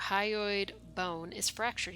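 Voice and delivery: said slowly, taking his time; slow, after a pause. Acted. The lieutenant finally reporting the fracture, slowly. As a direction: let it come out after a long think. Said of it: "he says after a while".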